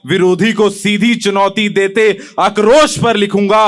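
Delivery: declaimed verse, falling in pitch at the close; poem recitation. Acted. Young poet on what he will write, declaimed. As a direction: recite with rhythmic stresses, settling at the end.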